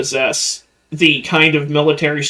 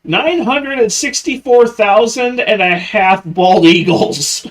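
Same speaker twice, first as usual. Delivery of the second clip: high, goofy joke answer; mock patriotic voice; 6 semitones higher, 3 dB louder than usual. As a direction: blurt it like a dumb patriot.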